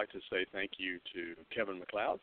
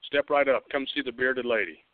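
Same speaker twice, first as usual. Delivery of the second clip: light carnival barker call; 3 semitones higher, 5 dB louder than usual. Retold or imitated. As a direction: hawk it like a barker. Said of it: "I just used one".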